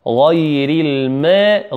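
غير الماء drawn out slowly with a heavy غ; careful teaching recitation; slow tajweed demo. Shown as a demonstration. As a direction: spell out غير الماء slowly, heavy غين and light ياء. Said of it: "الغين مفخمة والياء مرققة".

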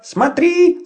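high excited shout. Acted. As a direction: yell it to get attention. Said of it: "закричал вдруг Петер". (громкий крик)

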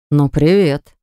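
low mock growl of a greeting; angry brother squaring up, a light growl. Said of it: "прорычал".

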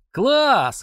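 high, loud exclamation; gleeful shout. Acted. Tolik shouts with glee at the fight, high and loud. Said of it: "хохоча выкрикнул Толик".

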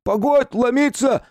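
high, loud yell through the door; shout. Acted. Young guard yells at the visitor to wait, high and loud. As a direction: holler to stop the banging. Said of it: "крикнул он".

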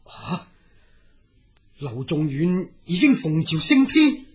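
slow, stunned murmur; stunned disbelief. Acted. Dragon hearing his friend ascended, slow and stunned. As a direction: let the news sink in slowly.

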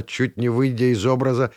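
usual speaking voice

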